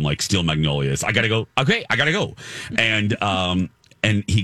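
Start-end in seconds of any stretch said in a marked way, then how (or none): 1.0-2.3 Sally Field. Retold or imitated. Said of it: "I feel like Sally Field".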